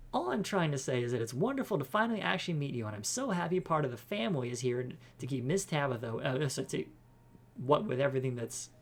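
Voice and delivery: lightly voiced, effusive chatterbox; a touch of perky over-friendliness; gushing friendly cleaner. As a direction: ramble on with eager goodwill. Voices Janie, gushing at newcomer.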